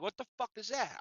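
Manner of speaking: puzzled, under-the-breath question; hushed disbelief. Retold or imitated. Baffled muttering at commotion outside.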